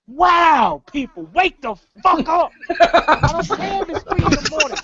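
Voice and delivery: loud exasperated rant at the fans; ranting shout. Real, not acted. Co-host ranting at WWE fans, loud and fed up. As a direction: yell it like you're fed up.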